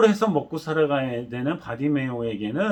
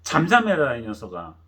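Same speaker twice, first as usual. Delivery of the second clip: scolding; 4 semitones lower than usual. Retold or imitated. Crowd scolding the blind beggar, mock stern. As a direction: scold the brat down. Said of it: "꾸짖어가지고".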